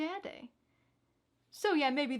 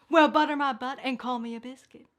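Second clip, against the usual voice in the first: loud folksy surprise; 8 dB louder than usual. Acted.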